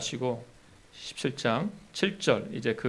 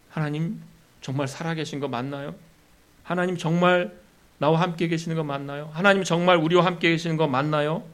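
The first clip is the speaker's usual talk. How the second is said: doubtful, rising challenge to God; a doubter asking if God is there; mock doubter testing God; 3 semitones higher than usual. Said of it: "하고 시험을 한 것입니다".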